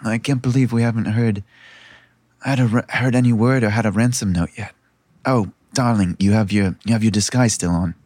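low, fretting royal voice; Myra. Acted. Princess chiding her disguised sister about the ransom note, low-voiced. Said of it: "This one's voice you recognize as Myra".

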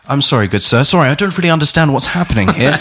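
Hugh Grant impression. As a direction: play a flustered, apologetic English fool. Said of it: "I was Hugh Grant".

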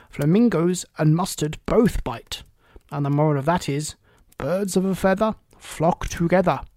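put-on a chatty, fussy old duchess. Duchess moralizing.

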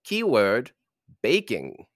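put-on transatlantic accent with rolled R's; rolling every R grandly. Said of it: "Roll the R's".

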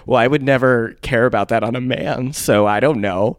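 loud, mock-defensive protest; defiant denial. Host reading out old survey answers, mock-defiant. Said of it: "how defiantly heterosexual I am".

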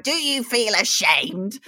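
a lightly attempted Beth Rigby accent, slow; a half-hearted stab at the interviewer's accent. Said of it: "I can't even do that accent".

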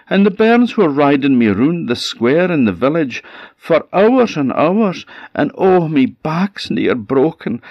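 high, wailing tale of woe; self-pitying lying goat. Acted. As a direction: pile on the misery, dragging out the sorest words. Goat complains of Willie's cruelty.

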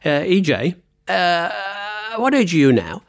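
mock Scottish accent, hesitant with long uhs. Co-host imitating his friend's question back to him, mock Scottish accent. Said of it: "in your typical Scottish accent".

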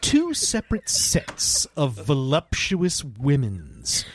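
slow, deliberate movie-blurb read; reading a synopsis. Shown as a demonstration. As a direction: read it like a film listing. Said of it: "Now, read the synopsis".

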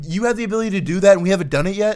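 high, fast disbelief; incredulous. Real, not acted. Incredulous friend.

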